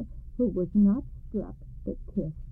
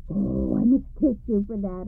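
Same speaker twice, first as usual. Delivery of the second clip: louder, happy exclamation; joyful exclaim; 5 dB louder than usual. Acted. Wife exclaims happily to her husband. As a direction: exclaim it with glee. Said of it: "exclaimed the wife".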